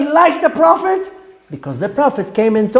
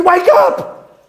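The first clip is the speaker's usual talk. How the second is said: high urgent shout, rising at the end; "Wake up!" called out rising; 5 semitones higher than usual. Acted. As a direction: yell it to rouse a sleeper. Calling out to sinners, rising.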